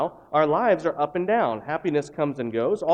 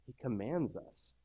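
usual speaking voice

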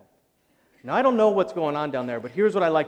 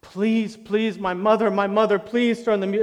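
louder, higher desperate pleading; begging; 6 semitones higher, 7 dB louder, slower than usual. Retold or imitated. Preacher reenacting begging prostrate in the hallway, desperate. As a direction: plead with him face down on the floor.

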